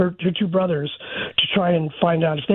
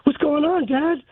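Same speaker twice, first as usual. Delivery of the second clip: mildly retold alarm; 8 semitones higher than usual. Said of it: "she was starting to freak out".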